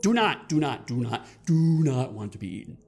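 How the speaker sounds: loud, hurried-sounding repeated denial; acted alarm, repeating emphatically; flustered pleading. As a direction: insist loudly, as a mildly panicked cat. Orange cat pleads not to be eaten.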